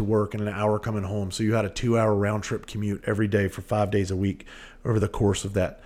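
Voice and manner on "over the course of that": breathless, gasping between words; talking short of breath. Real, not acted. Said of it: "Sorry if I'm a little short of breath".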